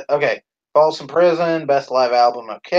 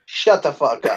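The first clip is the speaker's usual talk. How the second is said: amused brush-off through a laugh; laughing retort. Real, not acted. Teased by a friend over the garbled question, laughing retort.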